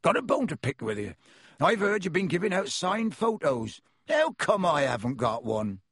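a friendly giant welcoming guests in; half-giant host greeting visitors at the door; Hagrid voice. Acted. Hagrid mock accusing.

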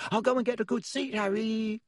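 very high, fast piping call. A narrator's reading. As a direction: pipe it after him as he goes. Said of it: "called after him in a piping voice".

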